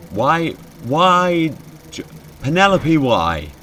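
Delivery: high, loud wail of protest; alarmed pleading. Acted. Scared player begging Penelope for a reason, alarmed. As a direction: plead loudly, stretching the whys.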